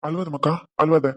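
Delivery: soft, gentle comfort; calm her down tenderly; soothing father. Acted. Father comforting crying daughter.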